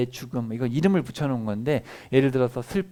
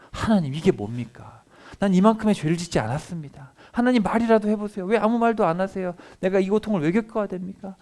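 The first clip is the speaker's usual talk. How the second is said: Job's lament; 6 semitones higher than usual. Retold or imitated. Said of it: "탄식이 어마어마하잖아요".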